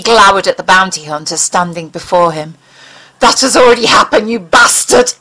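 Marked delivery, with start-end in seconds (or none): 3.2-5.1 fast, louder angry rush; blurted out. Acted. Mulder blurts at the bounty hunter, fast and louder. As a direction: let it burst out before thinking. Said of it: "he blurted out".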